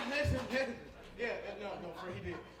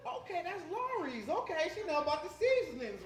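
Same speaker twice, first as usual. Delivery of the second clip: higher-pitched, sing-song approval; pleased approval; 6 semitones higher than usual. Retold or imitated. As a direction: sound impressed by the cooking you smell. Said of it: "I'm like".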